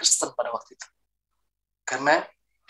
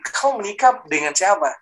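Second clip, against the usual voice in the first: imitating startled parents, pitched up; 5 semitones higher than usual. Parents reacting to their son's marriage news, mildly startled. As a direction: ask it in raised, mildly shocked surprise. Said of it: "orang tua saya kaget".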